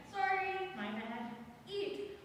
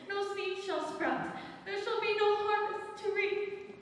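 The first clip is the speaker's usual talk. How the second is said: hammy stage actor. Acted. Goddess laments her lost daughter.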